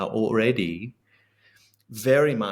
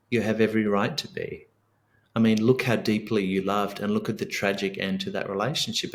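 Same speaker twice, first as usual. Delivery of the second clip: gentle self-talk. Shown as a demonstration. Man soothing his own grief, gently. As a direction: comfort yourself like a good friend would. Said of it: "That sounds like".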